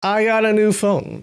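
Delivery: sing-song bragging about a new phone; mock careless glee. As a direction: imitate someone thrilled and careless. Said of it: "they're like".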